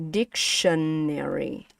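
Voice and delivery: syllable-by-syllable "Dictionary", falling in tone; high-to-low stress. Shown as a demonstration. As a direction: stretch "Dictionary" out, stepping down after DIC. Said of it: "lower the tone".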